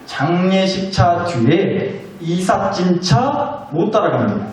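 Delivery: very slow emphasis. Shown as a demonstration. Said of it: "잘 생각하고 들어보세요".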